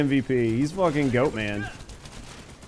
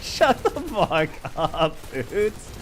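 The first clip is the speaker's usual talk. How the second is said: laughing; 3 semitones higher, much slower than usual. Real, not acted. Laughing at teammate's joke.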